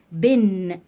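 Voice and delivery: very slow "هتبقى بن" with each sound drawn out; teacher slowing right down on "بن"; slow demo. Shown as a demonstration. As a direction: spell out "بن" slowly for the pupil. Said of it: "في تنوين بالكسر".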